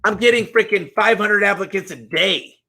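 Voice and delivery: high, excited can't-believe-it; high-pitched stunned exclamation; amazed disbelief. Retold or imitated. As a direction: react like you just saw something unreal. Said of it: "And I was like".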